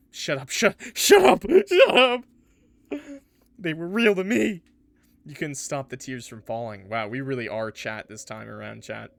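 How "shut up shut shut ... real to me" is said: much higher, louder shouted shut up; angry outburst. Acted. Heartbroken player shouting at the glitched character to stop. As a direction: yell them down.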